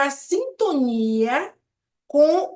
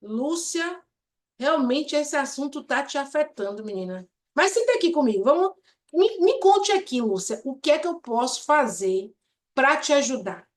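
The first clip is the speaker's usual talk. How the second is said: soft empathetic tone. Shown as a demonstration. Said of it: "eu digo".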